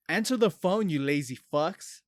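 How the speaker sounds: hammed-up phone rant; mock angry caller. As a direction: lay into them like a fed-up caller. Imitating angry callers' voicemails.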